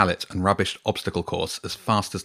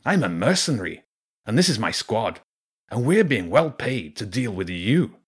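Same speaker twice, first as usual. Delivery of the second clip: Zen; 3 semitones higher than usual. A narrator's reading. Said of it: "the rat called Zen said".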